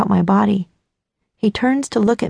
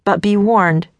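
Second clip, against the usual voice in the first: lower, lightly voiced guy, mock-ominous; challenging young man; 3 semitones lower than usual. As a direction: lay down the dare with mock gravity. Dean issues a challenge.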